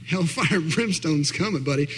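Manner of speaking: put-on old-time evangelist. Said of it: "I actually feel like an evangelist, an old-time evangelist now".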